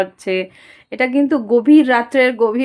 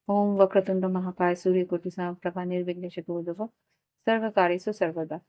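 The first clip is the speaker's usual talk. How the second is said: low, soft Sanskrit prayer; mantra recitation; 5 semitones lower, 9 dB quieter than usual. Real, not acted. Tarot reader invoking Ganesha before the reading, softly recited mantra. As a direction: murmur an invocation on a low, even pitch.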